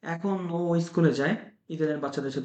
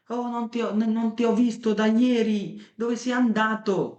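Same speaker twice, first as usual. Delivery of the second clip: slow, higher, exaggerated Italian melody; Italian demo speech; 6 semitones higher, much slower than usual. Shown as a demonstration. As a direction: act out a surprised Italian greeting, slowly. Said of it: "এই যে মুখ, মুখ, জিহ্বা একভাবে নড়তেছে".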